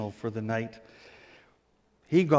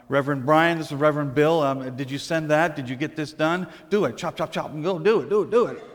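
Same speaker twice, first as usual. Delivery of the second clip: raised voice, barking orders into a headset; loud bossy phone call; 2 semitones higher, 7 dB louder, faster than usual. Pretend. Pastor showing off on a Bluetooth call, loud and bossy. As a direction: show off loudly to the whole room. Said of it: "raise my voice in the company of all these people and say".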